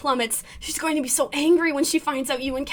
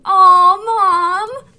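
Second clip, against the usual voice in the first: high, loud aw mom; embarrassed whine; 7 semitones higher, 11 dB louder than usual. Real, not acted. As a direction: whine at her, half laughing.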